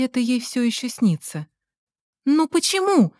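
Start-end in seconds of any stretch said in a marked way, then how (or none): 2.3-3.1 high pleading cry; exclaimed. A narrator's reading. Girl crying out at her boyfriend in a high plea. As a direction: fling the question up in despair. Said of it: "воскликнул тот же голос".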